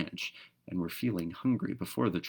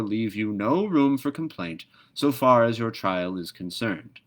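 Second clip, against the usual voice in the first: raised, loud solemn address; pompous bush creature opening a court; formal creature speech; 3 semitones higher, 4 dB louder than usual. Acted. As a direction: announce the trial with grave ceremony. Creature addresses the prisoner at trial.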